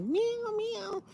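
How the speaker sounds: high, squeaky mock meow; cat meow. Imitating the cat rubbing up against you, high meow. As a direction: meow like a sweet lap cat.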